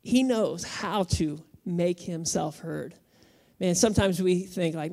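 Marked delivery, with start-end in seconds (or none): 0.0-2.9 He knows how to make himself heard, slow and deliberate; slow emphatic repeat. Shown as a demonstration. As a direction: drive the point home, slowly. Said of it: "Number one, God knows".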